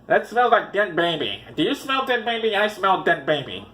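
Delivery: lightly voiced puzzled neighbours; mock neighbours. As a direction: trade the question like nosy neighbours, lightly put on. Acted neighbours noticing the smell.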